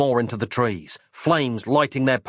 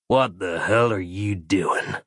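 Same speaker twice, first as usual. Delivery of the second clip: slow, lower lawman drawl; a lightly voiced gruff sheriff, slowed down; 4 semitones lower, slower than usual. A narrator's reading. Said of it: "he said".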